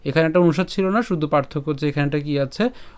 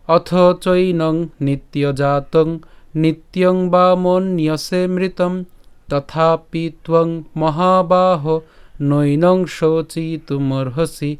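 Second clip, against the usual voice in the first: slow, even chant on a level pitch; shloka recitation; much slower than usual. Shown as a demonstration. Teacher shows how the whole verse is read, slow chant. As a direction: intone the verse with long held syllables. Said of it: "যদি শুরু করে পাঠ করি".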